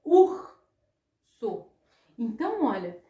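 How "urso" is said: urso, R said strongly and raspy. Shown as a demonstration. Teacher repeating urso with a strong R. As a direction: stress the R in urso. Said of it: "eu escutei ele bem forte".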